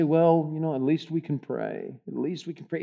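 deflated, defeated. Retold or imitated. Pastor imitating hopeless churchgoers, deflated. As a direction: sigh it out as if nothing's left. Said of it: "it has that deflated, defeated feeling".

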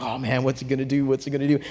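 excited anticipation. Retold or imitated. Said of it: "I'm all excited".

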